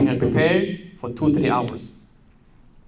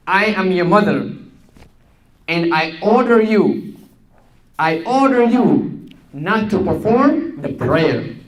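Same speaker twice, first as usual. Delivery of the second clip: lightly voiced mother giving an order; commanding mother; 4 semitones higher than usual. Mother ordering daughter not to pray, firm. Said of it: "And then the mother said".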